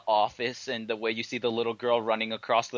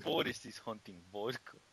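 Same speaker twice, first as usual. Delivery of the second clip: quiet mock-secret hunting voice; hushed hunter; 7 dB quieter than usual. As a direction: whisper it like you're stalking prey. Parody of cartoon hunter.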